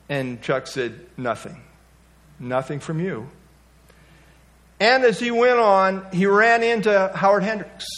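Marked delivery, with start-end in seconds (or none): 1.2-3.3 dejected reply. Retold or imitated. Dejected student in story.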